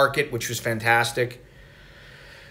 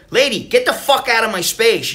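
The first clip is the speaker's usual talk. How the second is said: mock irritated; 8 semitones higher, 3 dB louder than usual. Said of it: "it's like".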